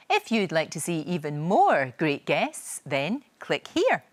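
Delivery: measured, scripted sign-off read; presenter's outro. Acted. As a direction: invite the viewers in, clearly paced.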